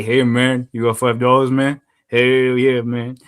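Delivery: exaggerated imitation African American accent; put-on African American accent, stretched vowels. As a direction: mimic African American street speech. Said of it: "like, they all say".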